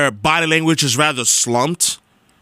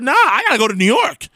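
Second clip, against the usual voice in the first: retold exasperation; 5 semitones higher, faster than usual. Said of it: "I said".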